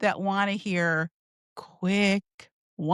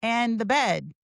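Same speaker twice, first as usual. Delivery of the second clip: 1 bubbly friend. Shown as a demonstration. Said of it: "I'd be like".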